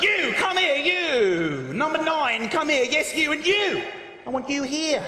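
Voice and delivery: a hint of a referee scolding players; referee shouting. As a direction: order them about like children. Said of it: "referees who shout at them like they're children".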